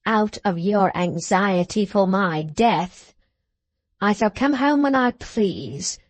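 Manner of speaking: slow, drawn-out menacing dwarf; malicious character voice, stretching key words; taunting dwarf. Acted. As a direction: taunt and threaten with relish.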